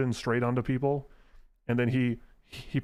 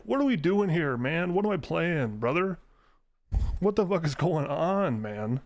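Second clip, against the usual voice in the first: exasperated disbelief; 4 semitones higher than usual. Retold or imitated. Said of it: "And you're like".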